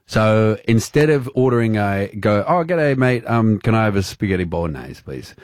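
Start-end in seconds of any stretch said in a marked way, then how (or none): 2.5-5.3 put-on broad Australian ocker accent; hammed-up Aussie order at a restaurant; a playful Australian accent; mock Aussie accent. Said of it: "will slip in the accent when they're ordering the dish".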